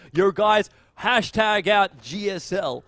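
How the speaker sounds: badly faked StarCraft caster accent; lightly exaggerated caster accent; bad mock accent. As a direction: hype it up in a poor put-on accent, stretching the words. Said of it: "That's a really bad exa-, uh, accent".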